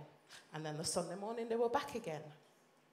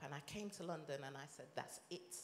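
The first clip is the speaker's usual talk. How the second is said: sinking almost to a whisper; hushed; 4 semitones lower, 10 dB quieter, faster than usual. Retold or imitated. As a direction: let the words drop away to nothing, breath only. Hushed turning point in testimony.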